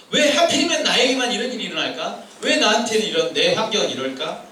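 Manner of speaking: mild why-me grumble; acted complaint. Preacher voicing inner doubts about circumstances, mild complaining. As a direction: lightly voice a resentful question. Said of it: "그런 불평스러운 마음들이".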